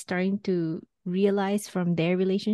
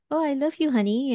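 imitated sweet-talking; 6 semitones higher, faster than usual. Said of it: "after he was being sarcastic, he said".

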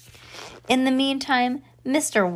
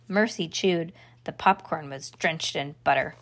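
usual speaking voice

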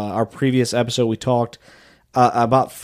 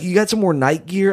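higher voice, imitating a coworker's question; mock coworker voice; 7 semitones higher than usual. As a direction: ape a coworker casually asking. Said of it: "They're like".

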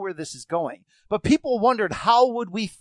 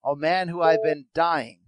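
dramatic introduction. Acted. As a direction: draw out the reveal like a showman.

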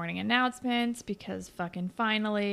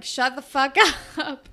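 laughing through a mock shout; hammed-up laughing outburst; laughing mock retort; 5 semitones higher, 6 dB louder than usual. Peter telling his dad off, laughing mock yell.

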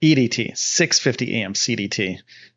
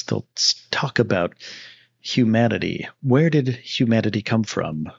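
mellow audiobook narrator. Shown as a demonstration. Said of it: "they'll talk like".

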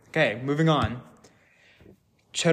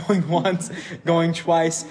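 auctioneer; 2 semitones higher, 3 dB louder, much slower than usual. Acted. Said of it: "me counting down".

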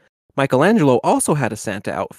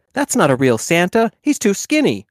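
put-on boy shouting; 7 semitones higher, 5 dB louder than usual. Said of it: "a boy shouted".

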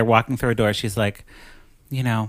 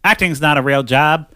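mom voice; 4 semitones higher, 6 dB louder than usual. Retold or imitated. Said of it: "her mom ... She's like".

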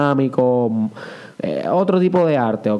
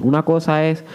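ordinary talk, nothing marked

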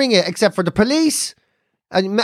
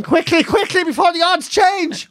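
high, drawn-out urging; mock urgency; 8 semitones higher than usual. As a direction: hustle them along as the betting-mad mum. Mother urging a bet placed fast.

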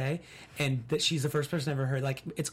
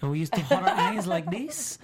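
put-on Hispanic accent; slower than usual. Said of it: "Hispanic accent very well".

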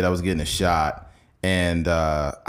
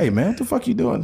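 mock dad outburst, pitched much higher; hammed-up protective father yelling; angry dad; 14 semitones higher than usual. Dad yelling at the doctor over the huge needle, mock outrage. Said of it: "My dad was like".

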